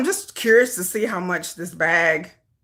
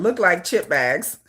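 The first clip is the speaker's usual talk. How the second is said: slow, lower, word by word; sounding out; 4 semitones lower, slower than usual. Real, not acted. Typing chip bags into a search, phonetically sounding out. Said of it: "I'm phonetically spelling".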